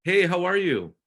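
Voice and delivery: upbeat sales call opener, bright hello; peppy realtor pitch. Shown as a demonstration. Coach demoing a cold call to a new agent, peppy. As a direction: sell it like a friendly realtor calling a lead. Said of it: "So if you wanna role play".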